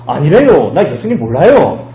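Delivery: Gangneung dialect with swooping intonation; 강릉 사투리. Acted. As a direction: deny it in a broad Gangneung accent. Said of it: "예수님이 강릉 사람인데". (강릉 사투리 억양으로)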